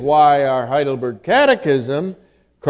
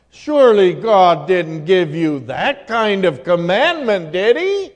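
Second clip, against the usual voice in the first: mocking tempter. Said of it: "What's Satan doing?".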